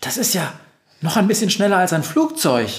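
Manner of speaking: high, amazed reaction; thrilled astonishment; excited. A narrator's reading. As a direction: marvel at it with lifted pitch. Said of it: "fragt Befana aufgeregt".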